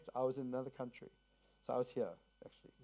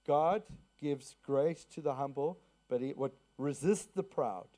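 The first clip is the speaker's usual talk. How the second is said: scripture quote. Shown as a demonstration. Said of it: "What's the scripture that says".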